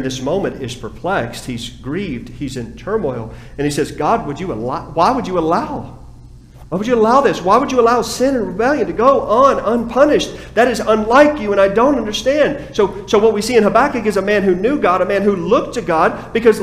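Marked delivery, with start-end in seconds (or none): 3.9-12.7 anguished plea. Acted. Preacher voices Habakkuk's anguished plea.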